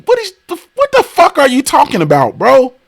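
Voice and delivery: hammed-up high-pitched imitation of an annoying guy; mocking high voice. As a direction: mimic him in a pinched high squeal. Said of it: "he just be talking like".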